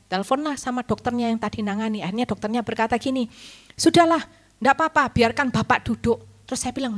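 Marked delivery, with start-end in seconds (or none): 3.8-6.2 resigned doctor. Retold or imitated. Doctor quoted giving in.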